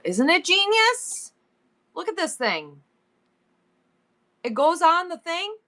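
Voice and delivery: lightly done, high sing-song Minnesota lilt; slow, stretched vowels, a hint of Minnesota; a Minnesota accent. Showing off a pot strainer to viewers, in a mild Minnesota lilt. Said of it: "why am I talking like that".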